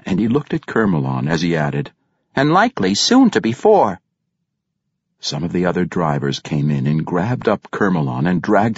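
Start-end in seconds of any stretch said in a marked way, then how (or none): 2.4-4.0 menacing. A narrator's reading. Regis threatens Kermelon.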